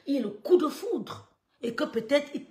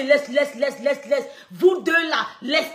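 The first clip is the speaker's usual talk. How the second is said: insistent laisse; 7 dB louder, slower than usual. Retold or imitated. Cutting the cousin off on phone.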